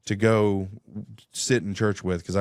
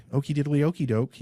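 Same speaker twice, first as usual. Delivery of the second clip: high, sing-song Ned Flanders impression; 7 semitones higher than usual. Guest mimicking Ned Flanders to the host, high and chirpy. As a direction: chirp it like the cartoon neighbour. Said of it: "Ned Flanders".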